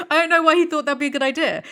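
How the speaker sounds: amused incredulity; laughing disbelief. Real, not acted. Laughing at the boyfriend's idea.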